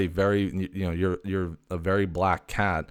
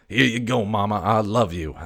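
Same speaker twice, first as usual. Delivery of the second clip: cat offering a gift; 4 dB louder than usual. Retold or imitated. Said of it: "and I was like".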